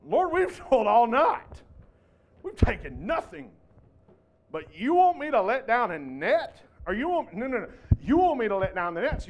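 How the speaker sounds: the know-it-all fisherman lecturing his Lord; Peter, talking down to the Lord after a night's fishing, condescending and loud. Acted. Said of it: "the condescending tone that Peter has when he says".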